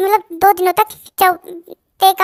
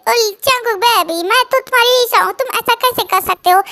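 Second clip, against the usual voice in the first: put-on coy whiny girlfriend; 4 semitones higher than usual. Lisha whines to a singer.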